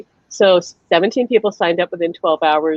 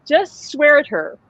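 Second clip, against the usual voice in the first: slow, higher-pitched instruction; retold urging; 5 semitones higher, slower than usual. Alan telling the medium what to do, slow urging. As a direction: draw it out as a retold piece of advice.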